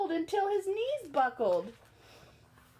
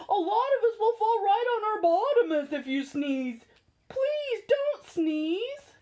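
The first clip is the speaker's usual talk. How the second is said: pleading hippo voice; 5 semitones higher than usual. Acted. Hippo pleading not to sneeze.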